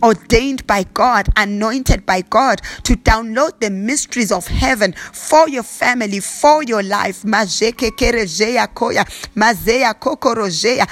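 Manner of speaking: prayer voice, lightly intoned, slipping into tongues; fervent prayer. Acted. Pastor praying over the congregation, earnest prayer voice. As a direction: pray over them, steady and earnest.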